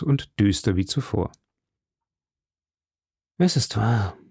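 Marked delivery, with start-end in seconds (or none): 3.4-4.2 level, understated admission; calm, composed. A narrator's reading. Athos admits it to D'Artagnan, calm and composed. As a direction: concede it with composure. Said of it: "sprach er gelassen".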